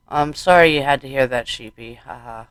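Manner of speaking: holding back tears. Acted. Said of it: "holding back tears".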